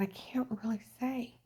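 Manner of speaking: hushed secretive whisper. Retold or imitated. Retells secretive reply.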